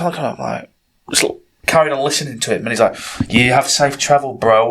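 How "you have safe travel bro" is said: slow attempt at a South African accent; badly faked South African accent. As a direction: have a rough go at South African. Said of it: "however the fuck you do the accent".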